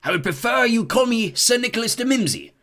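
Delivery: offended ghost correcting Ron; stiff. A narrator's reading. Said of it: "the ghost began stiffly".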